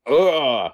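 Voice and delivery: a quick imitation of a film actor's "ugh"; half-hearted pained cry; imitated scream take. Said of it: "you get the guy doing the".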